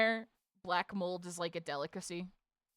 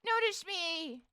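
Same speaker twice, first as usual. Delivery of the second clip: overacted anime dub; 6 semitones higher than usual. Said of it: "It says".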